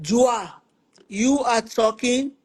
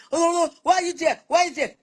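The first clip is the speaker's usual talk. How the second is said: fast, high, scolding bark; nagging boss; 6 semitones higher, much faster than usual. Retold or imitated. Husband nagging at home like a site boss, fast high scolding. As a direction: hurry them along like a foreman.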